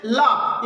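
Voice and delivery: "ला" with a flick of the tongue; tongue-flick demo. Shown as a demonstration. Teacher demonstrates the lateral sound, tongue-flicked "ला". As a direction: say "ला" alone, tongue turning up with a jerk. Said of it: "झटके के साथ हमारी जो जीभ मुड़ जाती है".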